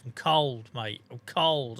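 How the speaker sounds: put-on Norfolk accent. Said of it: "in broken Norfolkese".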